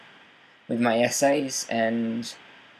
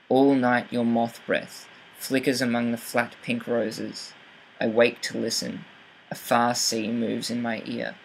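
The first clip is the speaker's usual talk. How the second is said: poem read with deliberate weight on stressed syllables, as in "bald cry"; stressed syllables emphasized. Shown as a demonstration. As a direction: mark the beats, as in "clear vowels rise". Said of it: "really emphasizing stress syllables".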